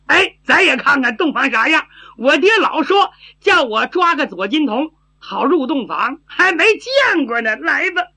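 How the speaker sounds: lightly voiced eager silly girl; simple-minded girl, curious. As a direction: chatter with a touch of naive eagerness, lifting at the end. (略带傻气、好奇的丫头)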